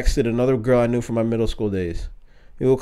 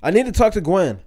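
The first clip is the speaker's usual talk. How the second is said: yelling through tears; 7 semitones higher than usual. Retold or imitated. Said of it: "I was yelling through my tears".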